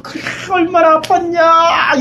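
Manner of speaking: high, drawn-out mock lament; lamenting in sympathy. Preacher mimics human-level comfort for hurt feelings, lamenting in sympathy. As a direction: imitate someone wailing in pity, stretching it out. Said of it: "이러고 탄식해주는".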